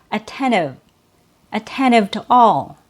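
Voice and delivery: "attentive" as "attennive", no T after N; disappearing T. Shown as a demonstration. Teacher giving another example, disappearing T. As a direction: say "attentive" casually, dropping the second T. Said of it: "the T is typically removed".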